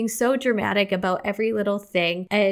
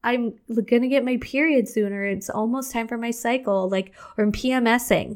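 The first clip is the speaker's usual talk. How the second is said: crying voice; 4 semitones higher than usual. Shown as a demonstration. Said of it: "This is my crying voice".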